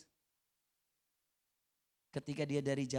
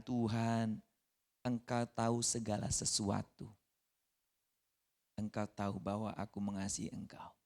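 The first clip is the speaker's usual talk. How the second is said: humble confession; 3 semitones lower than usual. Acted. Peter's humble third answer.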